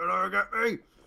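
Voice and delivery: muffled shouting. A narrator answers a player's question about the shouts, doing muffled shouting. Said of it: "muffled shouts".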